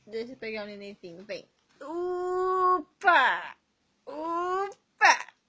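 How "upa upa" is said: loud, higher upsy-daisy; bright upsy-daisy as the baby comes up; lifting cheer. Acted. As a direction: cheer as you lift the baby.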